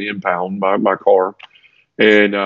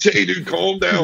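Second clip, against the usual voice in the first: mock scolding; 9 semitones higher, slower than usual. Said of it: "I was like".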